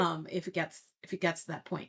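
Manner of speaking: echoing like a cave. Real, not acted. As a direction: voice bouncing round a cave. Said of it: "it sounds like you're in a cave sometimes".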